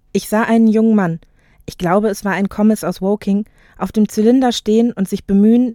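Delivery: measured audiobook reading; composed literary narrator; story narration. A narrator's reading. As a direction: tell it clearly, phrase by phrase. Reads novel excerpt aloud.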